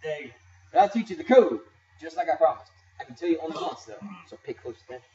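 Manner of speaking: lightly voiced cocky kid; kid gang leader voice. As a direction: read game lines as a bratty kid. Voicing game characters' dialogue.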